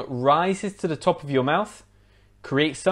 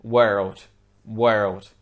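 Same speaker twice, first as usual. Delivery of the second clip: American world with much stronger R; American accent; 4 semitones lower than usual. Shown as a demonstration. Teacher contrasting with British, American accent on world. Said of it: "in American English, it would be world".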